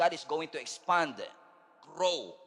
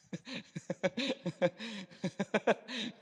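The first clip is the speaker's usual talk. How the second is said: short amused laugh; light laugh; 6 semitones higher than usual. Real, not acted. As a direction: laugh at your own joke. Laughing at own joke.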